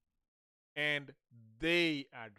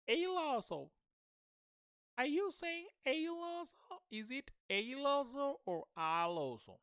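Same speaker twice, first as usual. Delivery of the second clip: high-pitched teasing challenge; mock questioning; 11 semitones higher than usual. Shown as a demonstration. Teacher checking whether learners say it wrong, high mock questioning. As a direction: put on a high, incredulous questioning voice.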